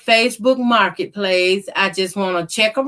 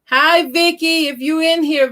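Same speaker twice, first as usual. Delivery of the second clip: excited; 8 semitones higher than usual. Real, not acted. Greeting a viewer on stream.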